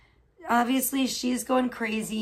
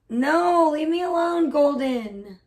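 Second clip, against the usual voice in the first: high, loud, fed-up No; shouting at the cat; 5 semitones higher, 6 dB louder, slower than usual. Real, not acted. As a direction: snap the cat away, loud and pitched up. Pestered by her cat early morning.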